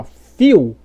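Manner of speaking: few said as "fiu", no L; U instead of L. Shown as a demonstration. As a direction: glide few into a U. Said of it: "se você falar assim".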